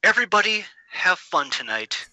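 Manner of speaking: lightly imitated pompous dramatic reading; pompous Frasier impression. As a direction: recite it with mock grandeur, pausing before each phrase. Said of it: "goes into this dramatic reading of".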